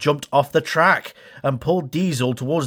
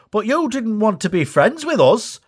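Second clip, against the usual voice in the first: Dash voice; 8 semitones higher, 3 dB louder than usual. Acted. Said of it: "Dash said".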